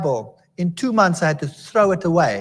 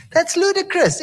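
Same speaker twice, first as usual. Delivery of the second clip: scoffing; 11 semitones higher than usual. Retold or imitated. Scoffing at a believer.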